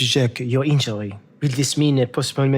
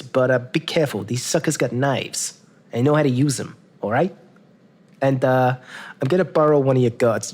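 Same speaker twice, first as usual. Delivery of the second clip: brash manager. Acted. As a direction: talk like a pushy fight manager. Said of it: "Gorgeous George goes".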